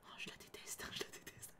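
hushed, hateful whisper; whispered sulk. Acted. Voicing Kero about the girl she hates, whispered. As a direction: whisper it bitterly. Voicing Kero's sulky line.

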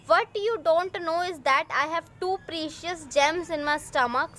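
put-on slow, clear English read-aloud for young pupils; teacher reading the story aloud slowly; slow storybook reading. A narrator's reading. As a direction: read each word out slowly for the class.

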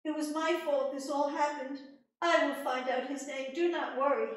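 high, loud, soothing promise; father reassuring his daughter Rose. Acted. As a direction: comfort her firmly. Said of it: "and he says".

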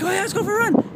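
high, chirpy mock eagerness; mock eager. Remembering agreeing to a run, high mock eager chirp. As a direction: play up how keen you were. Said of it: "I was like".

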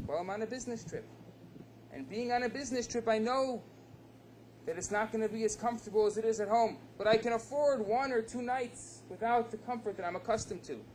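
the rich guest brushes off discomfort, fast; wealthy man explaining. Acted. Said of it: "Bear smiles and he says Me too".

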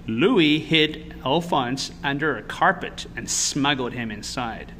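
put-on measured storytelling to children; picture-book narrator; story narration. A narrator's reading. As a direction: read the story aloud with expressive emphasis.

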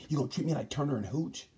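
voicing Maverick, hurt. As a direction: complain like a rider treated like a dog. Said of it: "Maverick said".

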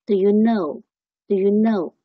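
slow "Do you know" with "duh" for do; weak form of do. Shown as a demonstration. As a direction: keep "Do" short and reduced, draw out know. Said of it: "最主要是一个的". (do弱读，慢慢示范)

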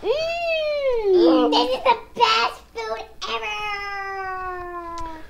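long, drawn-out gushing praise; hammed-up yum. Child praising food for dad's video, hammed-up delight. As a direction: savor it and stretch the ending.

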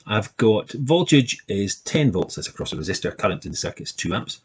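uneven, stuttering recording speed; choppy playback that drags and rushes; speeding up and slowing. Real, not acted. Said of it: "making it sound like I'm speeding up and slowing down".

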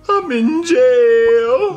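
very slow, drawn-out moan; wailing confession. Acted. Black Yoshi tells Mario where he is, drawn-out wail. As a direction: wail the last word long. Jailed friend wails on phone.

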